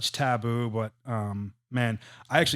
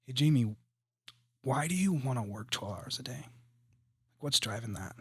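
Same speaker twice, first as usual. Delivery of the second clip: gentle and kind; 3 dB quieter than usual. Shown as a demonstration. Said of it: "use that same tone of voice".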